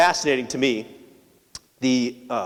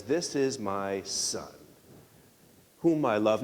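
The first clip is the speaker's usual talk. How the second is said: voice from heaven; 4 semitones lower, 7 dB quieter than usual. Acted. The heavenly voice at Jesus' baptism.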